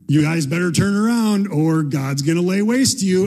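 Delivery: mock proclamation. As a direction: proclaim it like a reluctant prophet. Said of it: "he makes this proclamation".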